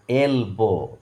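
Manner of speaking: "এলবো" sounded out in two drawn-out syllables, এল then বো; syllable-by-syllable pronunciation. Shown as a demonstration. Teacher showing pupils how to pronounce it, "এলবো" broken into two syllables. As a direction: split "এলবো" clearly into এল and বো. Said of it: "এইভাবে দেখো উচ্চারণটা করো".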